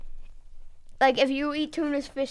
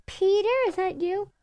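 higher voice rising into a loud call of "Peter!"; 7 semitones higher, 5 dB louder than usual. Acted. Mary Jane calls to Peter from the room, loud and high. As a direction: call across the house for him.

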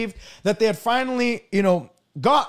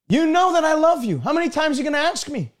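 higher-pitched, put-out protest, quickening at the end; acted exasperation, rushing the last question; exasperated; 4 semitones higher than usual. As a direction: protest being asked over and over. Peter answers the repeated question, put out.

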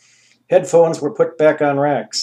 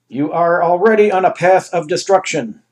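grand ruler; 5 semitones higher, 6 dB louder than usual. Acted. Anus voice.

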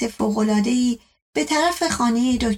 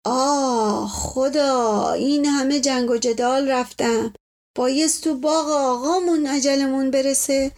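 dying lament; 2 semitones higher than usual. Acted. Servant begs doctor for the truth before dying, wailing. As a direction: wail pitifully, pleading with the doctor.

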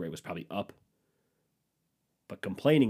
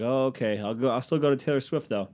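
sarcastic; 3 semitones higher than usual. Retold or imitated. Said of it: "I'm like".

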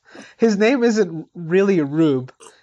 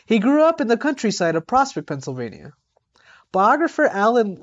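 kindergarten teacher voice. Acted. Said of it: "your reading voice is just like a kindergarten teacher".

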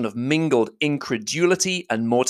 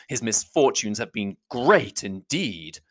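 contemptuous; slower than usual. Acted. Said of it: "repeated Darcy contemptuously".

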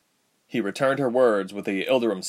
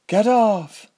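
high, loud urgent command; urgent shout; 13 semitones higher, 6 dB louder than usual. A narrator's reading. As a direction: yell it at her.

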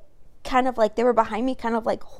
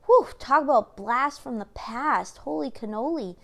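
mock surprise; 4 dB louder than usual. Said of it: "and I was like".

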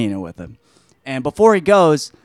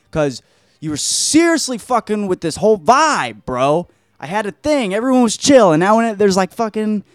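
higher, hammed-up complaining boss; exasperated scolding; 7 semitones higher than usual. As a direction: gripe at them in mock outrage.

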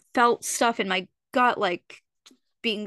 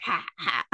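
a weak, quiet fake cackle that misses the mark; badly faked maniacal laugh; 4 semitones lower, 4 dB quieter than usual. Imitating Jeremy's laugh at the cop's line, as a badly faked maniacal laugh. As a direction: lightly imitate a maniacal laugh under the breath. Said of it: "that's not what he sounded like".

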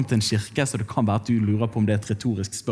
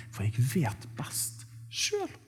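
slow, much softer whisper; whispered self-talk; 10 dB quieter, much slower than usual. Retold or imitated. Preacher voicing his own stubborn inner thought, whispered. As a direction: murmur it like a private thought.

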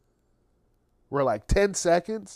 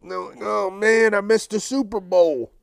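mock dismay; 6 semitones higher, 5 dB louder than usual. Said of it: "I was like".

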